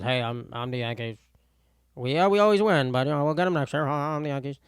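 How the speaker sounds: dull, smug everyman; bland normal guy voice. Acted. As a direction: play a boring guy bragging. Voicing the Yankees as normal Bob.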